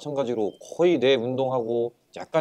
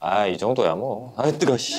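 slow, talking around hot food; laughing through a hot mouthful; mouth full of hot food; slower than usual. Real, not acted. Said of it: "안 뜨거우세요?". (뜨거운 음식을 입에 문 채로)

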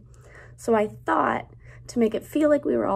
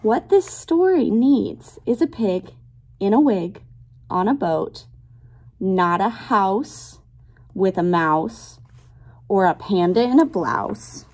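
lilting picture-book read-aloud; reading to children; slower than usual. Acted. Teacher reading a rhyming book to her class, lilting read-aloud. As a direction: read the rhyme to little kids, savoring each line.

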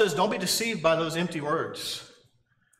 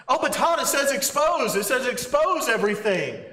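higher, pleading "but Todd" from a listener; a hint of a know-it-all protest; mock objector; 5 semitones higher than usual. Imagined listener objecting to preacher Todd, mildly mocking.

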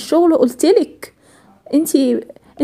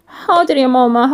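usual speaking voice

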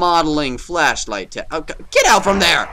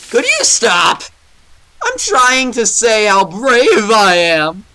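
cracking voice; 4 semitones higher, 4 dB louder, slower than usual. Real, not acted. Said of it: "with my cracking voice".

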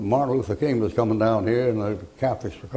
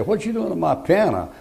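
outraged owner; 7 semitones higher than usual. Retold or imitated. Piano owner's outraged question.

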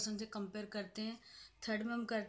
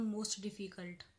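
slow dictation; much slower than usual. Shown as a demonstration. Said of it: "more difficult".

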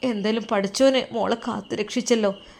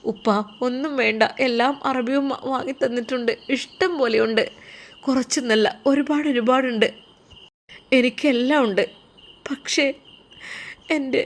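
higher, gentle daughter-in-law voice; gentle young woman; 3 semitones higher than usual. Acted. Daughter-in-law telling her father-in-law she needs nothing, gentle and higher.

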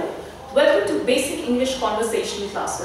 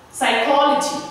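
"Psychology" stressed on "ol", just before "logy"; teacher demonstrating "Psychology" with weight on "ol". Shown as a demonstration. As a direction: punch the second syllable of "Psychology". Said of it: "I'm stressing here just before logy".

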